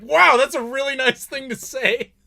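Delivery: high, loud mock amazement; exaggerated impressed Brit; UK locals reacting. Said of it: "all the people in the U K were like".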